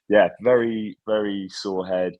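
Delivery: hoarse and groggy, slowed down; tired croaky voice, a bit rough. Real, not acted. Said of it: "croaky voice".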